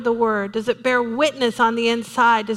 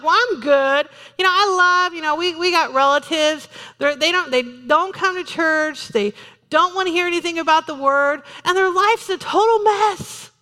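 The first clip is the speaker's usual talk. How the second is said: higher, self-satisfied church member; smug churchgoer; 5 semitones higher than usual. Retold or imitated. Preacher imitating a complacent member about relatives, smug. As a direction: brush it off, pleased with yourself. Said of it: "people are like".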